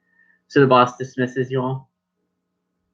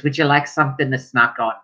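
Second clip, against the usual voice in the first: motherly dwarf voice. Acted. Dwarf hostess fussing.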